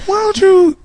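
high, coaxing mom voice; lightly voiced pushy mom. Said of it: "she's like".

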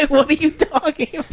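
high-pitched, baffled mock parent; mock confused parent. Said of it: "they'd be confused at first".

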